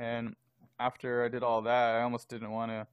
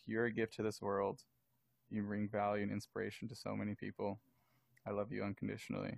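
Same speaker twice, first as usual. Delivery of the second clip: tender; 3 semitones lower, 10 dB quieter than usual. Retold or imitated. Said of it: "And I remember saying".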